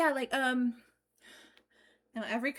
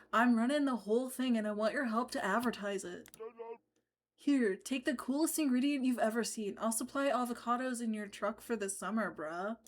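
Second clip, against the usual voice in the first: surfer dude voice. Acted. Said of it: "That is such a great bro voice".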